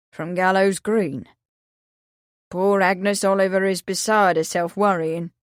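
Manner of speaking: mild mournful sigh in the words; sighing sadly. Acted. Old Willie telling of Agnes's worry, sorrowful. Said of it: "he sighed".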